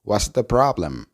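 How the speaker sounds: "What's the problem" linked, falling at the end; teacher models "What's the problem" clearly; model pronunciation. Shown as a demonstration. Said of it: "la oración completa se pronuncia". (pronunciación modelo de "What's the problem")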